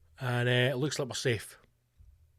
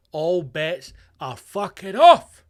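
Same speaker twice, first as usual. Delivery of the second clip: drawn-out shout; 2 semitones higher, 7 dB louder, much slower than usual. Acted. Ranting climax of the bit.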